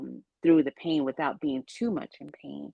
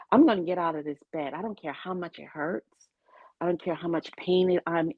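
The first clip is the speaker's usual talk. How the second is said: determined inner vow; faster than usual. Retold or imitated. Retold resolve to leave the bed.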